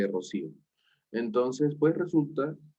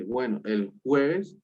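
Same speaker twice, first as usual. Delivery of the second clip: slow reluctant agreement; slower than usual. Retold or imitated. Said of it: "Me dice".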